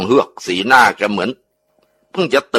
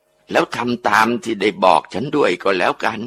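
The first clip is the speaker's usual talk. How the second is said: ghost voice; 3 dB quieter than usual. Acted. Ghost speaks through possessed aunt.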